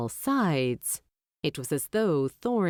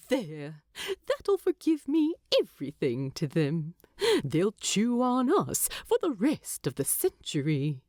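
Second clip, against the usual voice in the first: lightly voiced hobbit, teasing; a touch of a chuckle through the words; amused Bilbo. Bilbo teases Thorin about the gawping crowd, amused. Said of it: "Bilbo had laughed and said to Thorin".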